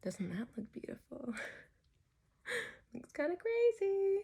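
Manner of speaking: stretched mouth while applying mascara; mascara face. Real, not acted. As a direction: talk with jaw dropped open. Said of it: "I'm gonna make my mascara face".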